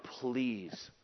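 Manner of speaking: imitating a desperate father, hushed; soft pleading cry. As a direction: plead softly, drawing the words out. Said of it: "And he cried out".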